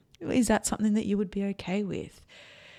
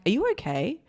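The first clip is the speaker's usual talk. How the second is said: higher, rising judgy check-in question; a little judgy; 6 semitones higher than usual. Shown as a demonstration. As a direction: ask it pointedly, pitched up at the end. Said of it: "that feels a little judgy".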